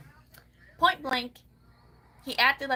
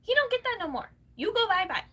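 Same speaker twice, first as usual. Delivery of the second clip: mocking singsong; 11 semitones higher, 5 dB louder than usual. Real, not acted. Mocking dismissal of him.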